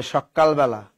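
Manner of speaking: সকালবেলা said sok-kal-bela; sok-kal-bela for সকালবেলা, k held; doubled consonant. Retold or imitated. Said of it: "এই উচ্চারণগুলো করে".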